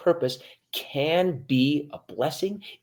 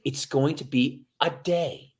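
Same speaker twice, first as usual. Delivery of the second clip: plain demo. Shown as a demonstration. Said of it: "Just say".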